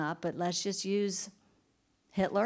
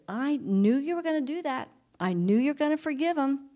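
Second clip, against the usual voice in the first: higher-pitched aggrieved protest; mild indignant complaint; 6 semitones higher than usual. Acted. Jonah complains to God about his mercy, mildly indignant. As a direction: complain with an I-told-you-so edge.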